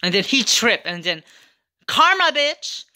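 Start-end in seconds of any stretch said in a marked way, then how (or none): 1.8-2.8 gloating cry. Real, not acted. Gloating at the boy who tripped.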